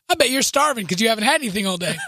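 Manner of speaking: fast, laughing mock concern; knowing tease. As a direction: tease him knowingly, rattled off quickly. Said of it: "she said, knowing".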